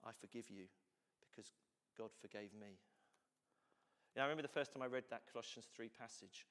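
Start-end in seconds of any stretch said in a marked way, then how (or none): 0.0-2.8 sincere forgiveness. Retold or imitated. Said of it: "if it wasn't".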